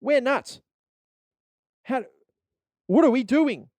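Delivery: very high, loud mock frenzy; manic ad hype. Catalog graphics yelling deals, mock manic. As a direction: go wild like a sale banner. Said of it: "little things written in that".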